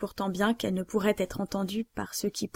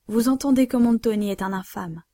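louder, hurling the accusation; vehement outburst; 5 dB louder than usual. Acted. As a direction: declaim it with full vehemence. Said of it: "s'écria Morano dans toute sa véhémence".

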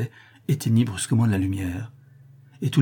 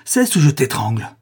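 loud, raised delirious threat; 4 semitones higher, 6 dB louder than usual. A narrator's reading. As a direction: cry out a frenzied threat. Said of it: "s'écria le notaire en délire".

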